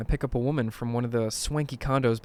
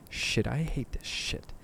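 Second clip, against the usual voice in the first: whisper; 7 dB quieter, slower than usual. Real, not acted. Muttered aside while scared.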